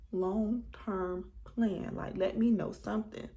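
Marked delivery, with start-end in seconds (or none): 0.1-1.9 Long-term plan? stretched very slow, word by word; drawn out slowly. Shown as a demonstration.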